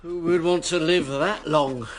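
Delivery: slow, amused laugh through the line. Acted. Gabriel laughing off the idea of living to ninety, slow and amused.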